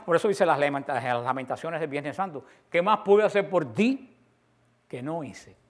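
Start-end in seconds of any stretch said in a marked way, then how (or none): 2.7-5.6 slow lament. Acted. Jesus' lament voiced slowly.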